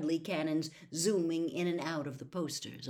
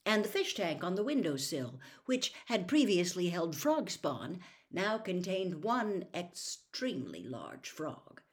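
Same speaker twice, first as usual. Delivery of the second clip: ordinary delivery, nothing marked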